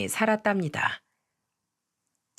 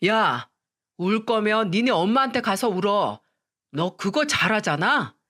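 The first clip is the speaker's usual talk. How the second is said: firm. Retold or imitated. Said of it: "저는 단호하게 말했죠".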